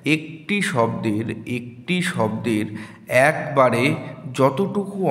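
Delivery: slow dictation. Shown as a demonstration. Slowly dictating the definition.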